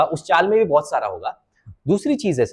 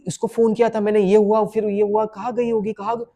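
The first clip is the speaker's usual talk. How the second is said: worried husband; 2 semitones higher, 3 dB quieter than usual. Shown as a demonstration. Coach demonstrates the worried husband's monologue.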